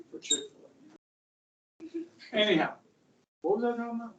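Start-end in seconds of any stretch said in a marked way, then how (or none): 0.1-2.4 amused. Real, not acted.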